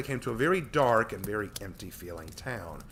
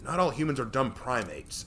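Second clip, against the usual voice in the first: grumbled; 4 semitones higher, 4 dB louder than usual. Acted.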